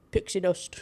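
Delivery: pixie dust said in a mock British accent. Shown as a demonstration. Trying the villain's British pixie dust. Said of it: "in a British".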